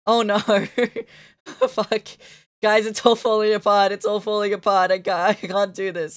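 loud flustered panic; drawing falling apart, streamer panics loudly to chat; real panic. Real, not acted. Loud laughing panic as the drawing fails.

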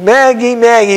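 retold holler. Husband running in to his wife Maggie, retold excited holler. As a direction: call out as if hollering into the house. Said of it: "He was hollering before he even".

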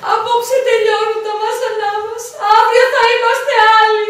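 half-laughing, half-sobbing, slow; wailing over the fortune with fake tears; blubbering with joy, a bit hammed-up; mock crying. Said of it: "Ε, τώρα γιατί κλαις".

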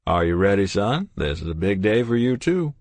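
put-on jovial old doctor, booming hello; kindly old doctor voice; cheery doctor. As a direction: greet them like a beaming family doctor. Doctor speaks to father.

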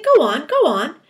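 high, loud, repeated pleading; frantic cry. A narrator's reading. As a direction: urge it twice in acted desperation. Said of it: "they cried frantically".

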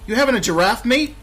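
loud, rising cockney-style challenge; incredulous copper. Acted. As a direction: scoff in disbelief as the policeman. Policeman mocks the player's report.

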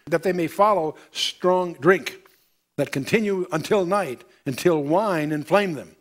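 measured, solemn Bible reading; solemn pulpit reading; scripture reading. Acted. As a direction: read it like holy writ to the congregation. Reads scripture aloud.

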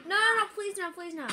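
anguished denial. Real, not acted. Pleading as he loses.

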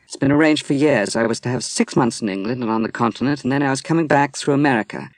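high, loud, fast cry of lost plans; bitter exclamation. Acted. Woman tells Dwight of her cancelled trip, exclaiming. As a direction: exclaim it, pitch flying up. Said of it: "she exclaimed".

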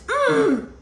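short high-pitched "mm" of refusal; refusing grunt. Acted. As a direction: grunt it high, like blocking someone off. Acts out the hand put up.

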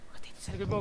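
breathy whisper close to the mic. Real, not acted. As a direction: whisper it so the monster won't hear. Hiding from monster, first take. (pabulong na pagsasalita)

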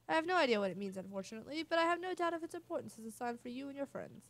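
theatrical seer with a swooping tune; mystic fortune-teller. Acted. Seer telling Mario what the star chart showed, theatrical prophecy. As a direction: proclaim it like a prophecy.

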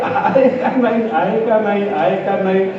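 repeated phrase stepping down from high; donkey's bray tail. Shown as a demonstration. Preacher imitating the donkey's doubting refrain, braying. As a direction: lightly bray it over and over, winding down. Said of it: "हे त्याचं सुरू होतं बरं का".

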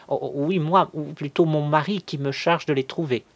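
anguished. A narrator's reading. Cousin explaining her husband sent her, anguished and high. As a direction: stammer into an anxious explanation. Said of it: "Elle tremblait d'angoisse".

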